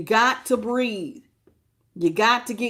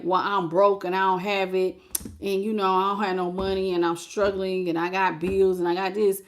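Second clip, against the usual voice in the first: mock complaining; 2 semitones lower than usual. Imitating a person who keeps saying they are broke. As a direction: whine like someone who feels broke. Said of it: "keep saying".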